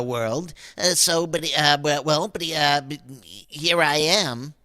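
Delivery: low, halting stammer full of buts; stammering nervous man. Acted. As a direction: stumble over every word.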